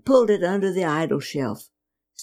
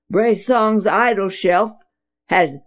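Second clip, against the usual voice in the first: exclaiming; 2 semitones higher, 3 dB louder than usual. Acted. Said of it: "Father exclaimed".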